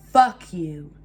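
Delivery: low, forceful, dead-cold delivery; imitated emotionless menace. Creepy ex before slamming the door, imitated emotionless menace. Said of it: "no emotion, dead stare in the face".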